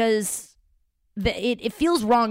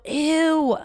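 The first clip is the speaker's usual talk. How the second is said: disgusted ew; 10 semitones higher, 4 dB louder than usual. Retold or imitated. Parents react to Dodge Challenger.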